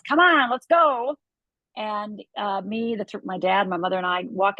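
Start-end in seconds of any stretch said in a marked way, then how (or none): 0.0-1.2 retold yell, slower and higher; dad yelling. Father hurrying the family out the door, mock yell. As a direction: call out impatiently to the family, dragging it. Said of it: "my dad once again yells".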